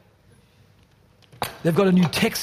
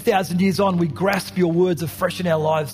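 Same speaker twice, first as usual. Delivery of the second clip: earnest prayer. Acted. Closing prayer over music.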